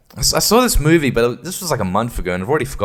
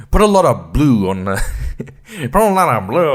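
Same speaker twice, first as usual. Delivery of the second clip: lightly imitated British director; attempted British accent. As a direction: have a rough go at a British accent. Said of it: "trying to do, like, a particular kind of British accent".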